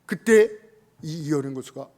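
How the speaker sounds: ordinary talk, nothing marked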